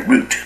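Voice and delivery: "route" said with a long oo, like "root"; mainstream "route". Shown as a demonstration. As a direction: give "route" its common U vowel. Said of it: "一般都念成".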